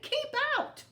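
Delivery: loud, high grumpy yell. A narrator's reading. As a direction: bark it at the intruder. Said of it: "yelled Hank".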